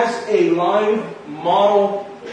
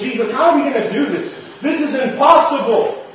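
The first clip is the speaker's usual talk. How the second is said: higher, fast, laughing disbelief; exasperated disciples; 4 semitones higher than usual. Acted. Preacher voicing the disciples to Jesus, higher and laughing in disbelief. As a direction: throw up your hands at the impossible task. Disciples voiced in retold scene.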